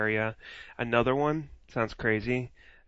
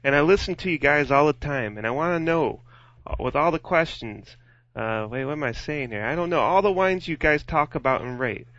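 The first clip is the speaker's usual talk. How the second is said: put-on Boston accent; 2 semitones higher than usual. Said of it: "That's the Boston accent".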